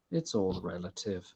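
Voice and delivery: quiet, even reply; calm. Acted. Damien turns to Elliot and answers, mildly calm. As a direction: say it evenly and without fuss. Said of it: "just calmly says".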